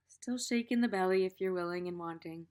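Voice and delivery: calm teacher's guiding voice; guided meditation. Acted. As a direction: gently lead them into the body. Leads a body meditation.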